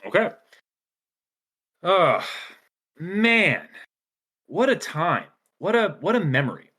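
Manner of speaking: high, theatrical character voice; Daleth character voice. Acted. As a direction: play Daleth for a wistful outro. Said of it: "ask for Daleth to take us out".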